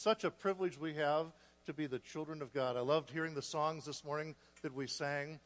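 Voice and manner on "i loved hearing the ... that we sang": short of breath from altitude; breathless, catching breath. Real, not acted. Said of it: "I'm still trying to catch my breath".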